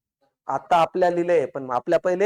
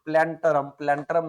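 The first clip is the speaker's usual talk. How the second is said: slow dictation; 3 semitones lower than usual. Shown as a demonstration. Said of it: "पुस्तक आलं genera प्लॅन्टरम".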